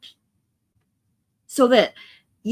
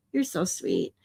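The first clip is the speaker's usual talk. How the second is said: lower, much softer, heartfelt; tender; 6 semitones lower, 7 dB quieter than usual. Real, not acted. Streamer thanks viewer Katie again, low and tender. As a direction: say it quietly from the heart. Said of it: "Aw, Katie".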